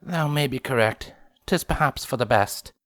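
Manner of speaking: put-on old-fashioned regal dialect; archaic royal speech. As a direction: speak like a medieval princess.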